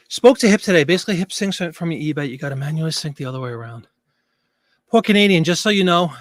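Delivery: breathless after running the stairs; panting between words; out of breath. Real, not acted. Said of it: "Sorry, I'm out of breath".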